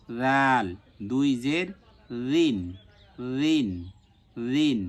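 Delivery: slow drill of রাল and রিন with soft dh; gentle Arabic dhal on each রিন; soft consonant. Shown as a demonstration. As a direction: start রিন with a lisped voiced th. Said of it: "নরম হবে".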